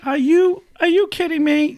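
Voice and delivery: high, loud mock outrage; imitating stunned classmates; incredulous. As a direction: throw it at him like you can't believe it. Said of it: "looking at me like".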